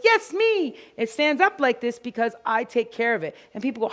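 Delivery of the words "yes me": voice of the hair. Pretend. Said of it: "it stands up and it goes".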